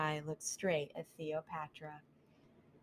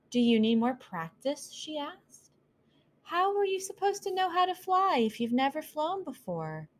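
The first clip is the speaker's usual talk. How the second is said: much higher, wondering mouse voice; curious little mouse; 9 semitones higher than usual. Acted. Mouse Cleopatra questioning the owl, much higher voice. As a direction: reason with him gently.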